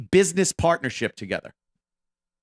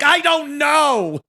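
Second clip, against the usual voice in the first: sheepish shrug; 9 semitones higher, 4 dB louder, slower than usual. Retold or imitated. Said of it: "And I'm like".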